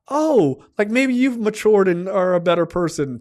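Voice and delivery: imitated approving mother. Mother seeing her son as matured, mock approving. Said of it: "watch her personality fucking flip on a dime".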